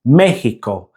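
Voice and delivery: "Mexico" as MEH-hee-ko, sharp short final O; Spanish pronunciation. Shown as a demonstration. Teacher repeating the Spanish model for learners, Spanish "Mexico". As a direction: say "Mexico" with H for X and no glide. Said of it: "sharp O sound".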